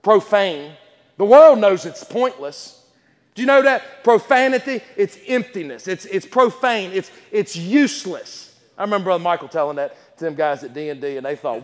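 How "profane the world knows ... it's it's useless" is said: emphatic pulpit delivery with stretched key words; forceful, measured sermon voice; preaching. Real, not acted. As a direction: preach it firmly to the congregation. Preaches to congregation.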